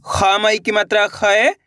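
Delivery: slow, deliberate spelling of खै. Shown as a demonstration. Teacher spelling out syllables slowly for pupils. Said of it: "देखिए किस तरीके से".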